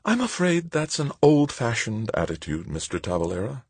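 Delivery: high-pitched official lecturing; patronizing lecture. A narrator's reading. Woman official to Tavalera on his duty, patronizing.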